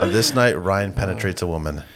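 movie trailer voice. Pretend. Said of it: "do the movie trailer voice".

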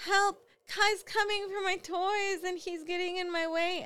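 put-on high child's plea; a small kid calling for help; little boy voice. Mother voicing her son asking for help.

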